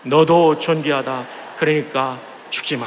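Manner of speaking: very slow, deliberate blessing; earnest slow encouragement. Shown as a demonstration. Congregation cue, slow and earnest. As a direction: stretch each word out with care. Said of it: "시작".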